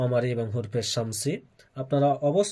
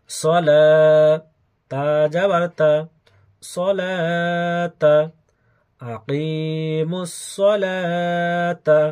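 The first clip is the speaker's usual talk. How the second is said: chanted letter-by-letter Quran drill; name each letter, then draw out the joined syllables; spelled-out recitation; much slower than usual. Shown as a demonstration. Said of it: "বানান সহ উচ্চারণ করে". (বানান করে সুরে টেনে উচ্চারণ)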